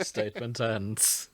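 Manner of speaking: slow whispered sign-off; mock archivist sign-off. Host mimicking the archivist ending a statement, slow whisper. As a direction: hush it like closing a spooky tape. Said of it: "I can't do a Jonathan impression".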